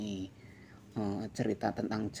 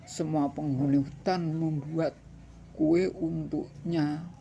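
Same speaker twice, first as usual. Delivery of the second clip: slow, carefully spelled-out reading; over enunciating; 6 semitones higher, 6 dB louder than usual. Shown as a demonstration. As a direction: stretch each word for children. Re-reads the line slowly.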